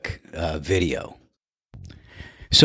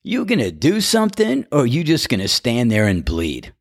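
a hint of a higher caddie voice; lightly voiced friend quoting the movie; imitating Cloudy; 5 semitones higher than usual. Golfer retells caddie's movie line, mildly higher. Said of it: "And he goes".

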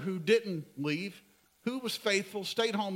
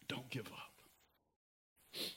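much softer and very slow, almost a hush; soft, slow plea; 7 semitones lower, 16 dB quieter, much slower than usual. Real, not acted. Pastor urging moms and dads, very slow and soft. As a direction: let it sink in, quietly pleading.

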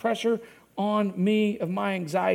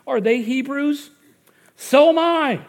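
rising, louder and higher with indignation; building heated outburst; riled-up Paul; 6 semitones higher, 8 dB louder than usual. Retold or imitated. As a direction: read Paul's boast like his blood is boiling. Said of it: "riled up, his blood boiling".

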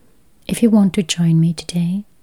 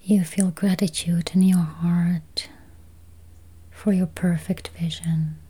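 slow, spacious meditation voice with long pauses; guided meditation; 5 dB quieter, slower than usual. Acted. Meditation guide easing listeners toward healthy eyes, slow guided-meditation voice. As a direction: guide listeners gently into calm, unhurried.

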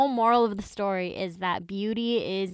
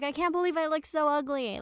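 pitched way up, half-acting her panic; mock freaking out; 7 semitones higher than usual. Retelling the heroine's panic, high mock distress. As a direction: play the ugly woman losing it, lightly. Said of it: "she starts freaking out".

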